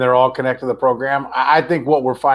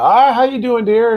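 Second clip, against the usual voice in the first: higher and louder, sunny hello; cheery greeting; 10 semitones higher, 5 dB louder than usual. Retold or imitated. Greeting the familiar waitress at breakfast, bright and cheery. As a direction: greet her like a friendly regular.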